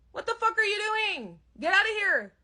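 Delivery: put-on a kid shouting at the intruder; angry child. Seven-year-old yelling at the squatter, angry child voice. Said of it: "my seven-year-old goes over and says".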